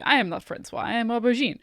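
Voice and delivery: light mock French accent; hint of a bad French accent, done in imitation; Aubergine. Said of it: "I was doing an impression of Aubergine".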